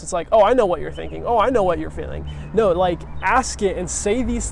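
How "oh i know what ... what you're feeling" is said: mock smug, louder and faster toward the end; know-it-all voice. Shown as a demonstration. Teacher mocking how not to talk to a hurt partner, smug know-it-all. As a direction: lightly ham up a condescending know-it-all. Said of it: "it's not a know-it-all voice".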